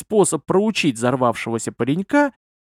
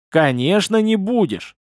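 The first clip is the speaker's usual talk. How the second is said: angry answer rising high; irate, higher-pitched comeback; furious retort; 6 semitones higher than usual. A narrator's reading. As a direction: fire it back in a touch of fury. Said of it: "С яростью отвечала опять Тора".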